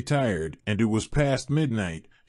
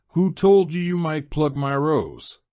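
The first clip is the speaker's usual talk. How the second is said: a higher, roaring monster voice; roaring beast; 4 semitones higher than usual. Acted. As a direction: roar it like an angry beast. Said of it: "roared the beast".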